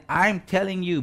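high-pitched, heated mock oath; cursing denial. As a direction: act out Peter swearing his denial. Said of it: "he cursed".

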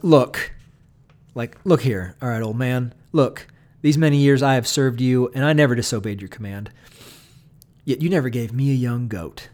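put-on sulky older son talking back to his father; a brash retort with an emphatic look; resentful son. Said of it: "the older son just says".

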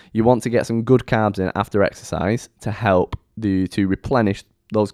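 hiccuping mid-sentence; talking through hiccups. Real, not acted. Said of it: "excuse me, I got hiccups".

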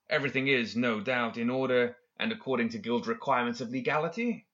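hint of polite condescension, lifting to a question; lightly voiced confident professor. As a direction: lightly play a schemer picking at an official. Professor's reply in story.

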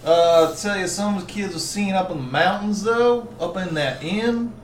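lightly slurred southern magistrate; southern accent. Acted. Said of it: "Stop doing the southern accent".

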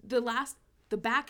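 laughing. Real, not acted. Still laughing after her joke.

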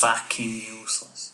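rough stab at American accent; attempted American accent. Shown as a demonstration. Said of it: "you have to do an American accent".

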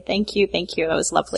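dry, sarcastic thank you; cynical thanks. Pretend. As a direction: thank them with a cynical edge. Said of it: "Let me thank cynically".

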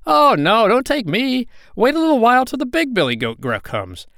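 high, urgent goat voice; pleading middle goat. A narrator's reading. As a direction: beg the troll as a goat. Second goat pleads with troll.

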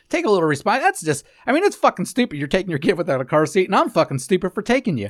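high, loud swearing rant; swearing tirade. Real, not acted. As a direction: rip into her, voice up.

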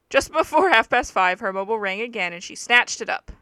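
brisk, projected audiobook-style reading; story narration. A narrator's reading. Reading the book aloud to a friend, story narration. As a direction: read it out like a true-crime book.

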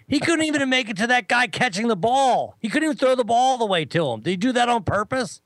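high-pitched mock incredulity; lightly hammed-up hysterical exclaiming; imitated hysterical amusement. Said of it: "he starts laughing hysterically".

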